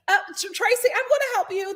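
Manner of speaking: high, hesitant mock nervousness; mock shaken. Melissa nervously offering Tracy help, mock shaken. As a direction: stammer it like someone rattled. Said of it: "she shook".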